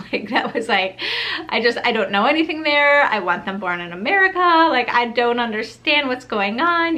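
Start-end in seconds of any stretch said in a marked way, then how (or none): 1.5-7.0 panicked rush. Retold or imitated. Pacing the house alone after the test, panicked rush. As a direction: spill the worries out in a rush of panic. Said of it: "like, pure panic".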